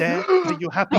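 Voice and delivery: high loud shout at him; exasperated shout. Acted. GM voicing Gertrude shouting at her husband, fed up.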